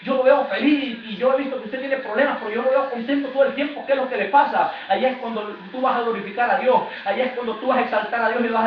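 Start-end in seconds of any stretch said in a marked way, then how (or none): 0.0-4.7 curious onlooker. Retold or imitated. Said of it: "te van a decir".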